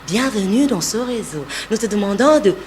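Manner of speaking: reassuring, smiling delivery; smiling welcome. Shown as a demonstration. Voice coach showing how to read a welcome line, smiling and reassuring. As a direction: welcome them with an audible smile. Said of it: "il faut avoir un sourire".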